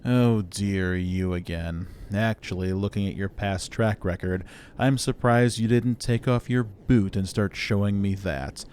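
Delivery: weary, haughty robot disdain; condescending superior machine. Acted. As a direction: dismiss a hopeless inferior with measured scorn.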